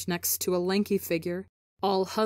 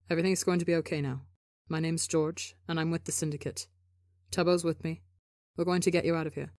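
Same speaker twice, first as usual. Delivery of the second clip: mild, steady reassurance; lightly voiced calm comfort; soft, even tone; faster than usual. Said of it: "still speaking in that soft, even tone".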